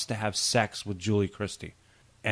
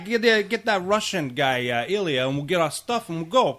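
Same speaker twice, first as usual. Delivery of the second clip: mock eager sidekick; 9 semitones higher, 6 dB louder than usual. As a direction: play the eager sidekick answering the boss. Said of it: "he doesn't talk like that".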